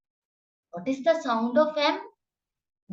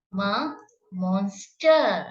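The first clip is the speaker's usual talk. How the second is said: slow sounding out; 3 semitones lower, slower than usual. Shown as a demonstration. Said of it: "teacher sounding out word".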